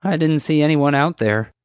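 high-pitched, sheepish guard; sheepish young guard. A narrator's reading. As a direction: admit it as an unsure young guard. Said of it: "He lowered his gun sheepishly".

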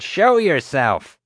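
loud, high and slow bellow; roaring. A narrator's reading. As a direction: drag out each word as a roar. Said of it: "she roared".

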